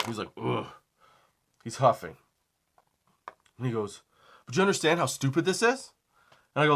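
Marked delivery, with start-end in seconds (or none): 0.4-0.7 imitated exasperated huff; short mock grunt of annoyance; customer's huff. Annoyed customer huffing at the store clerk, imitated huff. 4.4-5.9 higher-pitched, mildly mad customer; retold annoyance. Customer challenging the clerk over pricing, mildly mad. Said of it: "he starts to get a little mad".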